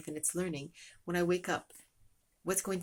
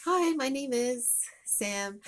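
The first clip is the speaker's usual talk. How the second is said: louder, higher, slow and bright hello; eager greeting; 7 semitones higher, 5 dB louder, much slower than usual. Acted. Child greeting the new teacher on the playground, eager and loud. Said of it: "you go up and you say".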